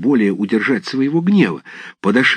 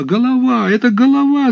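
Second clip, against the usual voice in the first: startled shout; 14 semitones higher, 3 dB louder than usual. A narrator's reading. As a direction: still higher, louder alarmed cry. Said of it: "закричали хлопцы и разбежались".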